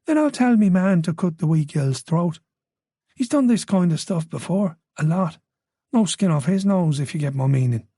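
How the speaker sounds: put-on Irish accent. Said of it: "An Irish accent".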